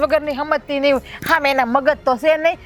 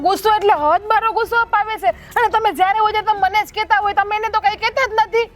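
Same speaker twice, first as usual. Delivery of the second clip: quick, raised, aggrieved protest; fast, high-pitched grievance; agitated complaint; 5 semitones higher than usual. Acted. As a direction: rush it out, feeling wronged. Daughter-in-law complains to Ba.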